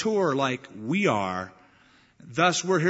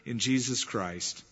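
scripture reading. Acted. Preacher reading Jude's letter aloud to the church, solemn scripture reading. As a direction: read the letter of Jude to the congregation, solemn and measured.

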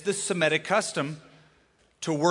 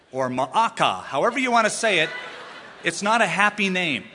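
laughing; 3 semitones higher, 5 dB louder than usual. Real, not acted. Laughs at the odd name.

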